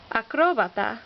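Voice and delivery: acróbata with CRÓ stressed; stress on accented syllable. Shown as a demonstration. Teacher listing words with written accents, stress on accented syllable. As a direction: lean on the second syllable of acróbata. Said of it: "words that need written accents".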